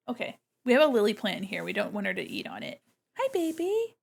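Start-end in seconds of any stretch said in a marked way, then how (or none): 3.2-4.0 high sweet voice for the kitten. Real, not acted. Greeting her kitten in high baby talk. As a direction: coo at the tiny cat.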